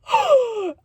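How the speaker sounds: sharp, high gasp of amazement; astonished gasp. Retold or imitated. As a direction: suck in air in shock. Astonished reaction to retold news.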